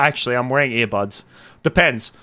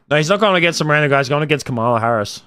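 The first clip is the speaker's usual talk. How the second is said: fast, louder correction; no, not a random guy; quick correction; 4 dB louder, faster than usual. Real, not acted. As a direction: snap back fast to set it straight. Correcting a chat comment.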